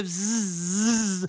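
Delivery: long buzz of an insect charging; attacking horsefly buzz. A narrator's reading. Storyteller's Loki horsefly takes a run-up, buzzing. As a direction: launch into a sustained bzz. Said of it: "prende lo slancio".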